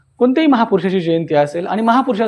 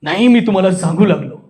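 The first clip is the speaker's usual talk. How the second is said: demonstrating speech from the chest. Shown as a demonstration. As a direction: speak it firmly from the chest. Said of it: "दुसरा असतो आपल्या छातीतून".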